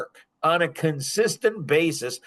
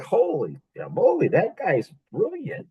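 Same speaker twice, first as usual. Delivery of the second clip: mock wife; 6 semitones higher than usual. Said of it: "a smart wife would have said".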